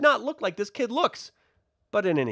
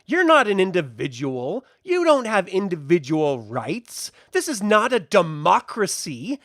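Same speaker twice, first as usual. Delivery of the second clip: mock evil lord; 2 semitones higher, 4 dB louder than usual. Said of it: "I would be like".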